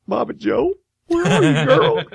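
high, half-hearted calling out; imitated lone caller. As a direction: call out in a high, thinned-out voice. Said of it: "And then it's just like".

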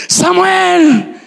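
high shouted call of a name; a mother yelling for her lost son. Retold or imitated. Mother searching the crowd, shouting her son's name high. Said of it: "Empezó a gritar".

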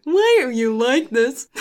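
lightly put-on friend's voice; a hint of plaintive complaint; Dakota. Co-host imitating a mutual friend, lightly put-on complaint. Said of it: "That's my Dakota impression".

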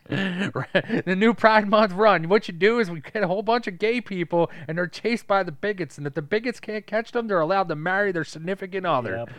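high, loud hammed-up pitch; mock announcer. Joking to a friend about a Pride run, hammed-up announcer. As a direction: sell the silly event like an ad.

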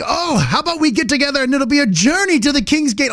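loud, high hammed-up olde voice; mock loud fair character. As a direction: boom it out like eager costumed guides. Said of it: "doing it, like, super loud".

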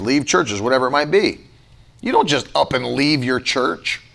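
ordinary talk, nothing marked

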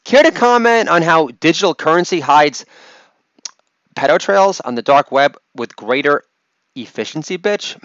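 mock snapping back; lightly acted testy retort; Katie Couric. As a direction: snap back with a pointed question. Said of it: "Katie Couric snaps back with".

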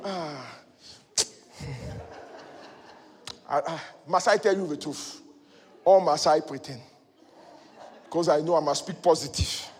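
lightly acted dejection, low and hesitant; mock downcast. Believer answering "how are you?", acted reluctant dejection. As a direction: act out a reluctant, deflated answer.

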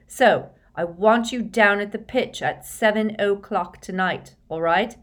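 rally the team with triumphant urgency; excited team captain. A narrator's reading. Excited captain reporting news, giving orders.

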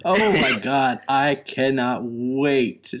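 drawn-out, delighted anticipation; emphatic, can't-wait enthusiasm; thrilled. Real, not acted. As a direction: gush with real excitement. Listener delighted by the story.

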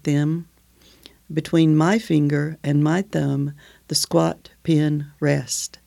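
slow, measured poetry recital; reading a favourite poem to a friend, slow and measured. Acted. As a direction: let each image land, unhurried. Reads the poem Digging aloud.

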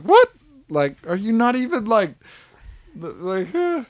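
high, disbelieving question; baffled. Retold or imitated. Viewer reacting to Barbie, high bafflement. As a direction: stammer it out in confusion. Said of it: "I was like".

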